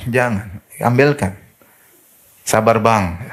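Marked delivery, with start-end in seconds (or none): 2.4-3.2 gentle plea. Shown as a demonstration. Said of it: "harus halus".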